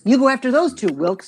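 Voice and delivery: actor demonstrates the intended cop line, falling firmly on Wilkes; police officer's line. Shown as a demonstration. Director quoting a police officer's scripted line, as intended. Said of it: "It was a police officer saying this".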